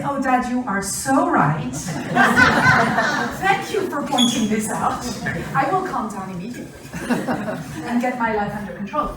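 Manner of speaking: mock-grateful, sarcastic daughter with a laugh. Daughter mock-thanks dad for pointing it out, sarcastic. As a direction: overdo the gratitude, dripping irony. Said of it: "Do you think she will say".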